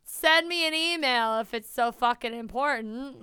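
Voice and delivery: slacker dude voice. Pretend. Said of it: "mock rude voicemail".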